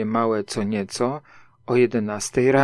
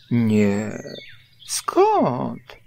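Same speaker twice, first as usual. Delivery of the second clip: nonchalant. A narrator's reading. Stuck Pooh fends off Rabbit's question, nonchalant. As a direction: brush it off with feigned ease. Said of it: "odparł Puchatek niedbale".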